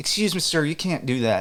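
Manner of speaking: put-on high-pitched Southern accent in a woman's voice. Retelling what a flight attendant said on a plane: imitating a southern woman. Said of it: "this nice Southern woman".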